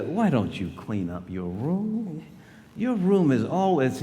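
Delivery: nagging parent. Retold or imitated. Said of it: "don't you hear things like".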